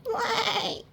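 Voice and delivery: high cry; high pleading cry; cried. Acted. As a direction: call out after the tractor. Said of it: "cried Sheep".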